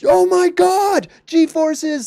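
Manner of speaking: high, slow, thrilled squeal; mock excited gasp. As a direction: gush like a kid about g-forces. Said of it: "If I was like".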